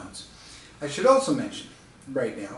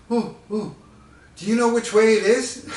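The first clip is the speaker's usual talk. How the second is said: put-on excited old lady; 7 semitones higher, 4 dB louder than usual. Elderly lady voiced, excited.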